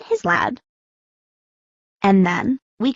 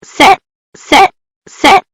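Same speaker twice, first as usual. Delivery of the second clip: higher, louder shouted dog command; 9 semitones higher, 10 dB louder, slower than usual. Acted. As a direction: yell at the dog to sit.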